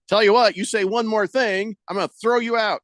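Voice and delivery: mock threatening ultimatum; retold threat. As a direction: imitate an umpire laying down a final warning. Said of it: "gets threatened".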